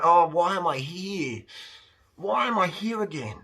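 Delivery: lightly imitating a fed-up man's whine; mock whining. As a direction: moan it like a bored, put-upon man. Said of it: "Whining about yourself or nagging a man".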